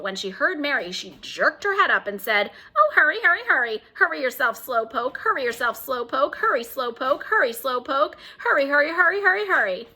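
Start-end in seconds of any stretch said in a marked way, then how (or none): 2.8-9.9 high, loud taunting squawk; shrieking parrot. Acted. Parrot mocks Mary as a slowpoke, high and loud. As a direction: taunt her like a screeching bird.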